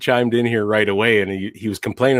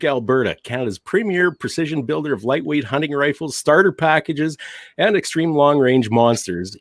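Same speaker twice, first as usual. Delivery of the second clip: lively, higher-pitched sponsor read; radio voice; 4 semitones higher than usual. Real, not acted. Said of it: "How was that my radio voice".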